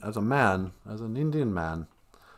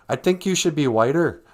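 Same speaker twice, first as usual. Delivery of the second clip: mocking redneck; 5 semitones higher, 6 dB louder than usual. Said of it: "redneck goes".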